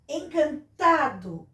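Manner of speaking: "Encantado" slowly, stretching TA; "en-can-TA-do", drawn out; strong syllable shown. Shown as a demonstration. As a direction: sound out "Encantado" with weight on TA. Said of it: "é o tá".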